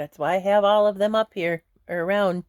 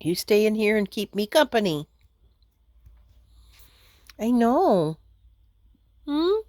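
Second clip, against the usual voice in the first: higher-pitched coaxing to a pet; pet talk; 5 semitones higher than usual. Real, not acted. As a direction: coax a little animal to stay close. Sweet-talking a pet.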